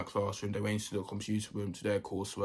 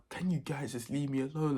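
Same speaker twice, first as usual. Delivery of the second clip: higher-pitched retold complaint; exasperated plea; 6 semitones higher than usual. Fed up with youngsters glazing him, exasperated plea. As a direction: plead to be left in peace, mildly hammed-up.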